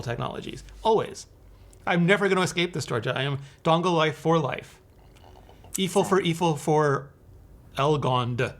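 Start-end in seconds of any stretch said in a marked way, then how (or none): 5.8-8.5 backwards speech. Pretend. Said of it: "Trying to say it backwards".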